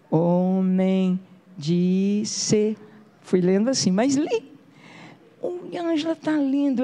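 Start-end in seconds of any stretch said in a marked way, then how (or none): 0.1-2.8 drawn-out, stumbling word by word; halting child reading. Retold or imitated. Imitating her five-year-old self reading the newspaper haltingly. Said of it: "claro que eu li gaguejando". 5.4-6.8 mother calling out. Retold or imitated. Mother announcing daughter reads.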